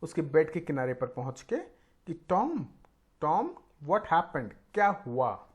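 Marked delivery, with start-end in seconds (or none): 2.1-5.5 frightened. Acted. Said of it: "घबरा के बोली".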